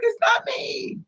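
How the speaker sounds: very high crying yell; mock scared shout. Denying to the attacker, high crying shout. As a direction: yell the denial in a frightened wail. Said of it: "I was scared as hell".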